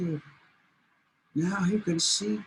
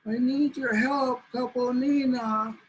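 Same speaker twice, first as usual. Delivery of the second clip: pleading coyote; 4 semitones higher than usual. Acted. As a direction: cry out to the buffalo for help. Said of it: "And he says".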